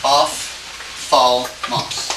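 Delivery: "Ophthalmos" drawn out syllable by syllable; dictating "Ophthalmos" piece by piece; sounded out slowly. Shown as a demonstration. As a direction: say "Ophthalmos" very slowly, a gap after each part. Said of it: "Let me just try to help you".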